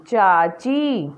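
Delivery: very slow, stretched word; slow blending. Shown as a demonstration. Teacher blends मटकी slowly for children, stretched. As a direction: draw each sound out for the class.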